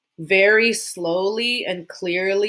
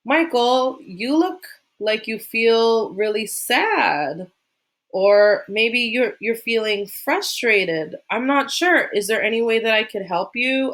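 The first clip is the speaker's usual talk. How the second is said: gentle caring teacher; 3 semitones higher than usual. Shown as a demonstration. Teacher gently asking an upset student how to help, caring. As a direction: speak kindly to a child who is upset. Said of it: "you can say".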